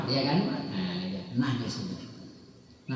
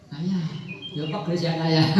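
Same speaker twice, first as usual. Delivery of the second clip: whining daughter. Retold or imitated. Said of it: "Nangis anakku".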